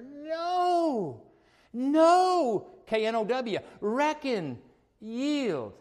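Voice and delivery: loud, high, desperate "No! No!"; Paul pleading at the top of his voice; exasperated shouting. Retold or imitated. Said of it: "And Paul's pulling out his hair".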